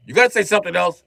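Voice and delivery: high, loud put-on voice; squeaky taunt; mocking high voice. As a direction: needle him in a squeaky voice. Other voice mocking.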